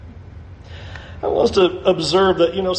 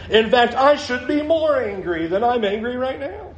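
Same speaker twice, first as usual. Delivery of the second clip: laughing mock Jonah.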